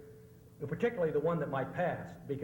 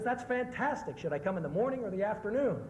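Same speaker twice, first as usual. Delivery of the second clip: pitched up high, mock thrilled at the news; eager delight; 6 semitones higher than usual. Soviet man hearing his car date, mock thrilled. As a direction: play the happy Soviet car buyer, overjoyed.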